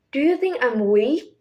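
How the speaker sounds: uncertain question rising sharply on WEAK; Queen Elizabeth. Acted. Teacher quoting The Crown's queen, uncertain rise on WEAK. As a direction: lift the voice at the end, on WEAK. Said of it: "Her pitch rises to show uncertainty".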